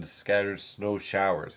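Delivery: scattered said slowly and leaned on; slow, emphasize scattered; slow emphatic stress on scattered for viewers. Real, not acted. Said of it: "I also stress the word scattered".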